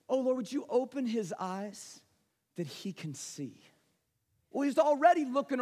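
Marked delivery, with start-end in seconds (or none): 0.1-3.6 acted calm prayer, softening at the end. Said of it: "he prays".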